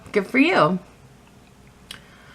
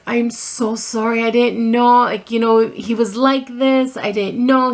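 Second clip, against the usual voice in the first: apologetic mother; 3 semitones higher, 3 dB louder than usual. Retold or imitated. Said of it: "She felt so bad".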